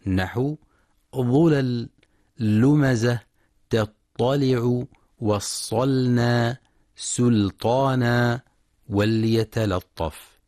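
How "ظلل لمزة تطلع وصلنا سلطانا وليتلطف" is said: slow recitation with every lam in ظلل، لمزة، تطلع، وصلنا، سلطانا، وليتلطف kept thin and light; slow and deliberate, keep the lam in وليتلطف light, never thickened. Shown as a demonstration. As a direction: recite slowly with a clear thin lam in each example. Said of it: "اتفق القراء على ترقيق كل لام".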